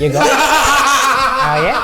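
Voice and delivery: mock New Zealand bedroom talk; Kiwi accent. Comic imagining a New Zealander during sex, mock Kiwi accent. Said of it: "the Kiwi accent too".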